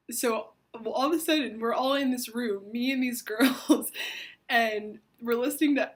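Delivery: lighting up at the happy memory, loud and high; excited. Real, not acted. Excited retelling of a happy moment.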